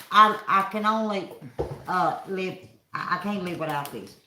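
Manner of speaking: talking with a mouthful; words round a bite of food; mouth full. Real, not acted. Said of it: "I'm talking with my mouth full".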